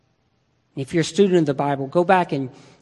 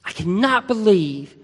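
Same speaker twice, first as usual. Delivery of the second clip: exasperated disbelief. Retold or imitated. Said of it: "I would be like".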